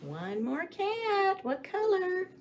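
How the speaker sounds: playful teasing. Acted. Teacher building suspense.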